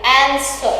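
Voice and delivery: "Answer" stressed on its start; stress on first syllable. Shown as a demonstration. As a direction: put the weight on AN in "Answer". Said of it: "The stress is on the starting".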